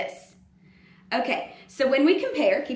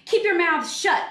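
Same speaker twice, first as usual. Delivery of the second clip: stern witch teacher; 7 semitones higher, 4 dB louder than usual. Acted. Miss Swamp orders the class.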